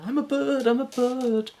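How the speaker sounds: high, airy dream voice; dreamy wonder. Pretend. Dreamer admiring the view from a mountain, high and airy. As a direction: marvel like a child on a mountaintop.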